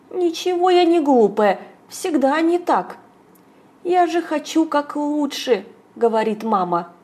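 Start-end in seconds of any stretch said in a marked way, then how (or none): 0.1-3.0 high, tearful protest; всхлипывая, обиженно возражает; обиженно сквозь слёзы. Acted. Мама плачет после ссоры. 3.8-5.6 жалобно, сквозь слёзы. Acted. Мама плачет после ссоры.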